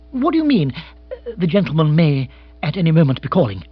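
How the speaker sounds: agitated questioning with a hesitant break; agitated lord. Acted. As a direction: pitch it up in alarm, then falter. Agitated Bill questions his valet.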